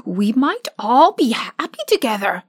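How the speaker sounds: lightly voiced cheerful scarecrow; a hint of a pleased straw ruler. Scarecrow as new ruler addresses his friends, pleased.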